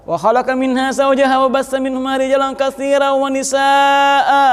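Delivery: steady chanted recitation of the verse; measured Arabic chant, holding the long vowels; Quranic recitation. Shown as a demonstration. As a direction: intone it as a khutbah opening.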